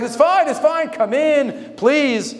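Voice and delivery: high, eager woman's voice; widow welcoming. Retold or imitated. Widow welcomes him again.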